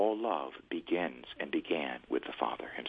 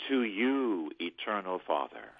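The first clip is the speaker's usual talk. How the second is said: prayer phrase. Shown as a demonstration. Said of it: "But I'll do it phrase by phrase".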